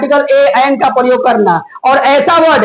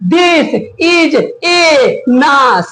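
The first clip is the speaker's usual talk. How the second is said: slow mocking read; much slower than usual. Shown as a demonstration. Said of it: "पूरा English को नाश कर देगा".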